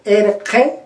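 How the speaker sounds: "erge" with i opened to e by a back consonant. Shown as a demonstration. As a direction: slowly say "erge", postvelar g far back. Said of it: "es el que se ha abierto mucho más".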